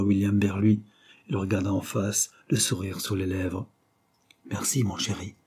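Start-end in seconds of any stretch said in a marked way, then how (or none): 4.5-5.3 doux merci à mi-voix; tout bas. A narrator's reading. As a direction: remercier tout bas, avec tendresse. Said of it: "lui dit-il tout bas". (dit tout bas, voix retenue)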